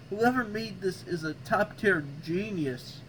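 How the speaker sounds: slow, drawn-out mock admiration; sarcastic. Shown as a demonstration. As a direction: praise it slowly with heavy sarcasm. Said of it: "sarcastic voice, by the way".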